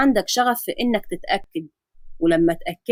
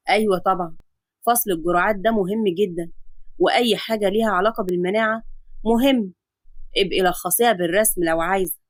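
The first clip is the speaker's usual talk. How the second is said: a lower, steady doctor's voice; calm doctor; 3 semitones lower than usual. Acted. Adam explaining the X-ray to his patient, calm lower doctor voice. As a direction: reassure the patient like a calm physician.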